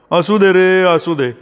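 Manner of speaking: amused father. A narrator's reading. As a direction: wave it away good-humouredly, no real laugh. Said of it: "बाबा हसत म्हणाले".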